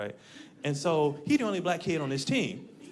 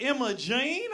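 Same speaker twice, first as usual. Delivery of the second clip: much higher, sweet Southern waitress voice; 8 semitones higher, much slower than usual. Retold or imitated. Southern waitress welcoming a customer, high sweet drawl. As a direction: coo it like a syrupy diner waitress. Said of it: "She's like".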